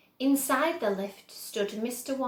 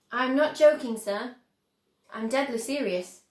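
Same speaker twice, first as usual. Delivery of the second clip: louder, firm Wonka; insist, dead serious; 2 semitones higher, 7 dB louder than usual. A narrator's reading. Wonka insisting to Grandpa Joe, firm.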